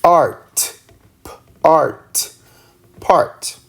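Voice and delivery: "p, art, part" split into parts then joined; sounding out slowly. Shown as a demonstration. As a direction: stretch each part before joining them. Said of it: "we say p".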